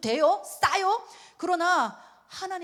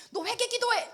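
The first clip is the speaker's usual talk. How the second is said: high-pitched mock-stern parental command; scare-tactic order; 12 semitones higher than usual. Parent ordering a naughty child to pray, mock-stern. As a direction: order a small child as if gravely alarmed. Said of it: "제가 막 겁을 줬어요".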